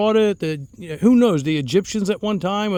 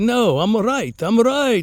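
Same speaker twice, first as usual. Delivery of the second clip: slow, teasing, fake Italian accent. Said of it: "with a fake Italian accent".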